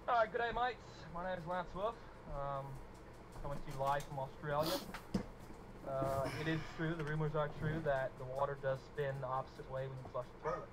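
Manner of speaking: put-on lightly done Aussie accent, good day mates; Australian accent. Pretending to be an Aussie on the stream, light Australian accent. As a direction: play the bloke from down under, Australian all through. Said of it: "the accent was really good".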